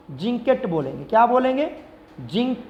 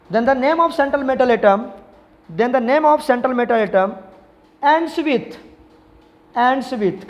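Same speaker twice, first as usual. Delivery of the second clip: slow, drawn-out dictation pace for notes; much slower than usual. Shown as a demonstration. Teacher dictating a rule to students, slow and drawn out. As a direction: spell out the rule so students can write it.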